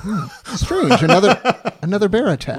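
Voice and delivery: high, loud mock surprise; mock puzzled. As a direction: act baffled with a laugh. Mock puzzled at bear attack.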